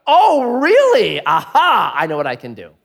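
gleeful scheming discovery; scheming Laban. Retold or imitated. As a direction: Laban learns the dirt, mock gleeful then sly. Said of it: "was like".

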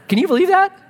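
can't believe the joke in the name; amazed. Real, not acted. Pastor marveling at the Hurrians' name, amazed.

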